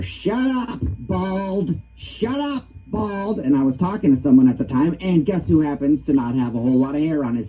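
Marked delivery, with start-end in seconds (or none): 0.0-3.4 high squawky parrot imitation. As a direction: squawk it like a cheeky parrot, much higher. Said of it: "and I hear".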